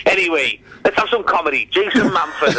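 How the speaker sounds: lightly done Welsh club host announcement; slightly lifted Welsh MC voice; imitated Welsh accent. Club host brings on the comedian after tears, Welsh accent. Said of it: "I'll try and do the accent".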